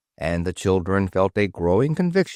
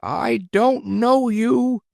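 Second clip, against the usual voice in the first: cried out; slower than usual. Acted. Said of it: "cried Kathy".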